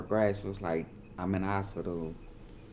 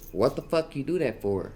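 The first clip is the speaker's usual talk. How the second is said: high-pitched imitated yell; retold yell; 6 semitones higher, 3 dB louder than usual. All she heard was someone yelling, imitated yell. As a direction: retell a startled bystander's outcry, pitched up. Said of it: "somebody just yelled".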